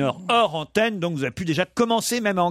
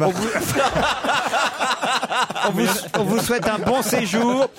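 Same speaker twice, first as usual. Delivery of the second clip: laughing; 4 semitones higher than usual. Real, not acted. Host laughing at a listener's joke.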